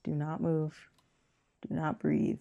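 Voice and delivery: put-on a whispered shh to a baby; hushing whisper. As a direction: hush the baby urgently in a whisper. Acting parent hushing baby.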